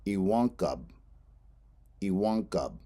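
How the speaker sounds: iwankab with stress on the a; Lakota iwankab. Shown as a demonstration. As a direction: say iwankab, i-WAN-kab, lean on the a. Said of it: "stress is on the A".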